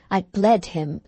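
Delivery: ordinary delivery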